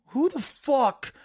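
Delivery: high, slow, stretched-out disbelief; mock baffled outrage. Friend retelling a bad theater trip, drawn-out high disbelief. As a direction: act out gaping at a bad movie.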